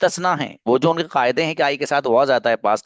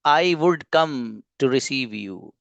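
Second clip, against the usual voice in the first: slow model sentence; much slower than usual. Shown as a demonstration. Teacher models English sentence slowly.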